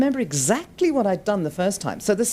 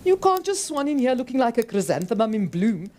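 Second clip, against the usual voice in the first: snarled; 6 semitones higher than usual. Acted. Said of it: "Cholpon snarled".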